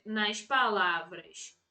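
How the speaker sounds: drawn out, word by word; measured board-writing pace; slow dictation. Real, not acted. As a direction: dictate slowly for people copying it down.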